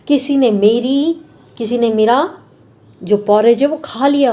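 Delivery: a touch of a stern father bear; Papa Bear's gruff voice. Acted. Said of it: "gruff मतलब एकदम कठोर आवाज़ में बोला". (हल्की कठोर पापा भालू की आवाज़)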